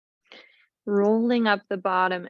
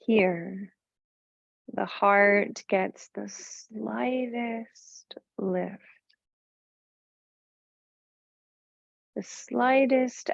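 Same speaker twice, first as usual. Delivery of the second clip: measured meditation voice with long pauses; guided meditation. Real, not acted. Yoga teacher settling the class into heart-focused rest, guided meditation voice. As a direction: guide them inward, unhurried and even.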